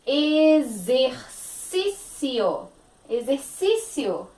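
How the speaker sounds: Exercício slowly, xe as ze. Shown as a demonstration. Teacher sounding out Exercício slowly. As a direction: draw out Exercício with z. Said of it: "o X aqui vai ter som de Z".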